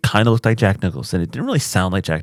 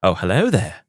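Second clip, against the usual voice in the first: lightly imitated Obi-Wan greeting; a touch of the younger British Obi-Wan; Ewan McGregor. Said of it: "mixed it with Ewan McGregor's".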